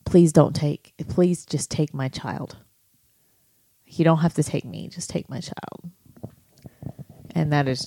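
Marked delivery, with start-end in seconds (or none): 0.1-5.9 desperate pleading. Retold or imitated. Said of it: "perhaps banging even harder and saying".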